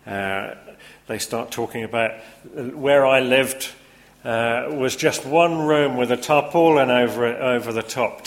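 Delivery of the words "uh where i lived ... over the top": put-on Yorkshire accent. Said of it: "Yorkshire accent in the different, uh, character voices".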